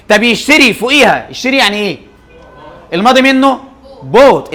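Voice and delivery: emphatic drilling. Shown as a demonstration. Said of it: "teacher drills verb".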